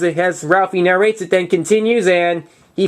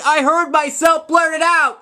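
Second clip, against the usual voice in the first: horrified blurt; 7 semitones higher than usual. Retold or imitated.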